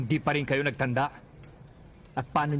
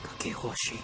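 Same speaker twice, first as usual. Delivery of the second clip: stunned whisper; 7 dB quieter, slower than usual. Acted. Stunned recognition.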